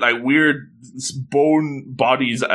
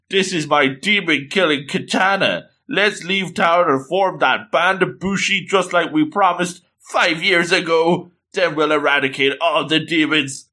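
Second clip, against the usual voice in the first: eager hero declaration; 5 semitones higher than usual. Acted. Hero proclaims grand plan to friend.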